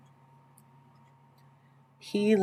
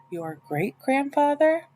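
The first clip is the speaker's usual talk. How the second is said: amazed question; 8 semitones higher, slower than usual. A narrator's reading. Opal amazed.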